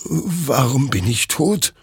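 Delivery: high, slow, stunned question; bewildered dread. Acted. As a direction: ask in horrified disbelief. Soldier sees his own corpse.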